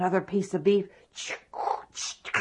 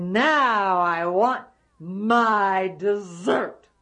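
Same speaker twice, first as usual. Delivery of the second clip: very slow, smiling giant voice; slow grinning giant; sly giant; much slower than usual. Acted. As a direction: savor the threat slowly. Giant smiling, wants dessert.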